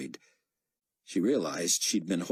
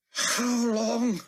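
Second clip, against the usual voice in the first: Nikolai voice; 4 dB louder than usual. Acted. Nikolai asking.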